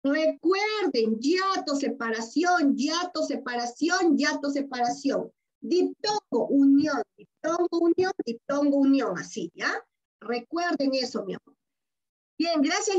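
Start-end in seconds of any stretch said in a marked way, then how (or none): 1.2-9.2 each term and its meaning in measured, stressed pairs; emphatic drill. Shown as a demonstration. Teacher makes pupils remember the terms, emphatic repeated drill. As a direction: drum the paired words in, one beat each.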